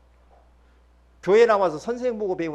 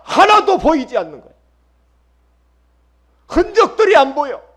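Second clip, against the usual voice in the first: loud, higher impassioned sermon voice; fervent preaching; 9 semitones higher, 12 dB louder than usual. Real, not acted. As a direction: cry it out to the congregation. Preacher voicing children's complaint, fervent. (열정적으로 외치듯 설교)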